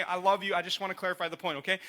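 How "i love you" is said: mocking. Shown as a demonstration. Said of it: "I'm gonna say this in a mocking way".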